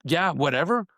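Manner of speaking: mock-offended, rising and indignant; offended reading. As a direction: read it as a personal insult. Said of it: "the other guy reads it as".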